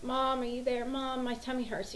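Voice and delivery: mimicked little tummy-ache whine; sick child calling. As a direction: imitate a child whining for Mom at night. Waking sick child calls mother.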